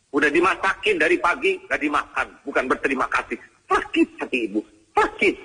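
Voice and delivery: a mock mother's hurt grumble; lightly voiced aggrieved mother. Mother grumbling to her children about uneaten food, mock-hurt. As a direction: complain as a hurt mother, ending in a high cry.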